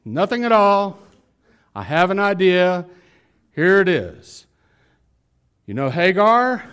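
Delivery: wife pitching her scheme to her husband; coaxing wife. Acted. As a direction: lift the pitch and sell the idea.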